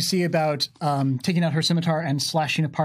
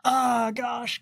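whispered gosh; 7 semitones higher than usual. Real, not acted. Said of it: "whispered worry".

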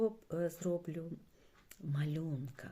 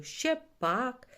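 higher, keen exclamation; enthusiastic; 7 semitones higher, 8 dB louder than usual. A narrator's reading. Білик answers after the thrilling ride, enthusiastic. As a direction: answer with eager delight. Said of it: "захоплено промовив Білик".

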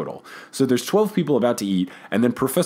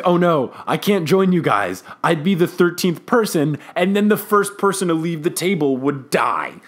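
mock prophet of doom; lightly hammed-up ominous refusal; over-the-top dramatic; 3 semitones higher than usual. Professor predicting doom to the diners, mildly hammed-up. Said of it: "obnoxiously over the top with her dramatics".

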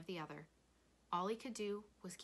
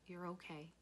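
soft, gentle reassurance; soothing; 5 dB quieter than usual. A narrator's reading. Father holding crying Rob tight, soothing. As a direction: comfort him quietly.

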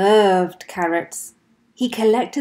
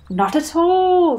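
Rabbit; 9 semitones higher, 6 dB louder than usual. Acted. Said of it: "said Rabbit".

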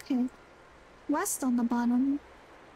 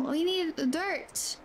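slow; much slower than usual. Real, not acted. Solving the riddle, slowly.

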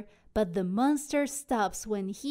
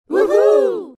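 very loud, high cheer; crew cheer; 10 semitones higher, 17 dB louder than usual. Acted. Crew cheers about the treasure, loud whoop. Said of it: "cries the crew".

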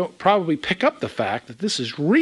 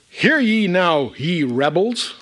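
slow, raised rebuke, acted from scripture; upset Moses; 3 semitones higher, slower than usual. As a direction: rebuke the crowd as an upset prophet, drawn out. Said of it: "Moses upset".

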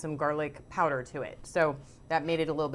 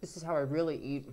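talking through a mouthful of food; mouth full; 3 semitones lower, faster than usual. Real, not acted. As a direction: speak while chewing, mouth full. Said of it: "I talk with my mouth full".

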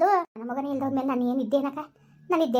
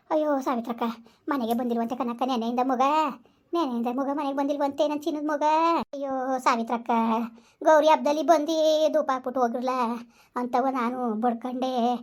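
weeping lament; 2 semitones lower than usual. Acted. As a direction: grieve aloud for the golden son. Mother weeps, lamenting son.

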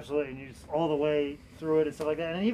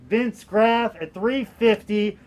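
slow, louder bid call; auctioneer voice; 3 semitones higher, 4 dB louder, much slower than usual. Pretend. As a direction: announce the top bid like an auctioneer. Auction host calls top bid.

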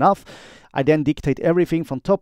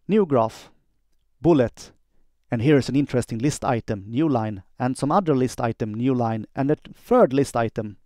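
dictating. Shown as a demonstration. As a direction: dictate clearly, every word spelled out for the machine. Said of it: "quick demo of how I do dictation".

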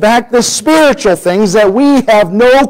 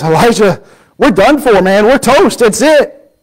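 higher, frantic cry of alarm; panicked servant; 4 semitones higher than usual. Retold or imitated. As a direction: sound the alarm like the servant seeing the army. Servant panics at enemy army.

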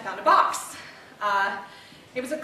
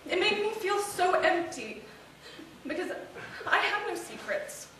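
higher-pitched, hurt confession; wounded outpouring; 5 semitones higher than usual. Acted. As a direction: pour out the hurt of a betrayed wife. Confesses hurt over husband's secret life.

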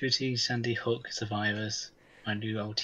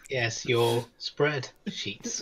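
seductive; much slower than usual. Acted. Slow seductive reply.

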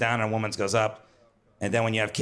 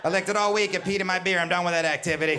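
mock exasperated refusal; 5 semitones higher than usual. Acted partner refusing the licking chore.

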